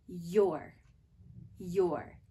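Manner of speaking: your with a clear y glide; teacher models your for children; Y sound demo. Shown as a demonstration. Teacher modelling the y sound for preschoolers, your. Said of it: "We say this when we say your pencil".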